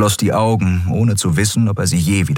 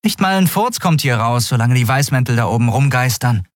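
put-on a child's high, blunt brush-off; cruel dismissal; 7 semitones higher than usual. A narrator's reading. Child Orin bluntly shuts down Kai's escape plan. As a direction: crush his hope in two words. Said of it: "Aus Orins kindlichem Mund".

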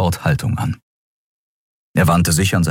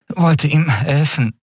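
higher, slow, strained answer; hoarse reply; 10 semitones higher, slower than usual. A narrator's reading. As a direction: answer weakly after being choked. Andriel answers Kero. (heiser und schwach)

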